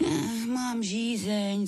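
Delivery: put-on high, slow pleading little girl; high drawn-out begging plea. A narrator's reading. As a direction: whine it out like a thirsty sick child. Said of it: "zaškemrala".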